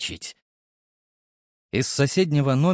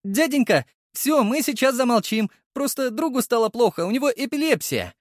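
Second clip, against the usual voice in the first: pleading shout; 12 semitones higher than usual. Acted. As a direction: shout apologies through the wall. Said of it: "выкрикнул я".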